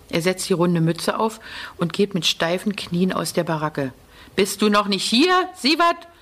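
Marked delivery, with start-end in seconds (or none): 4.3-6.1 loudspeaker shout. A narrator's reading. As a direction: bark the name over the camp speaker. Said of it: "schreit es aus dem Lautsprecher".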